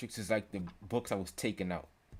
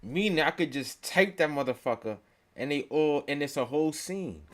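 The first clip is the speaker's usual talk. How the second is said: excited; 4 semitones higher, 5 dB louder than usual. Real, not acted. Hyped about AI video.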